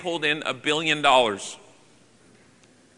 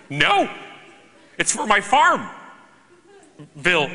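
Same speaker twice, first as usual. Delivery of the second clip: buddy's reply; 3 semitones higher, slower than usual. Retold or imitated. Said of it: "He's like".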